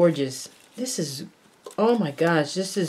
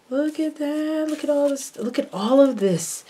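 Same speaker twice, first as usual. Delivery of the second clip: delighted; 10 semitones higher than usual. Real, not acted.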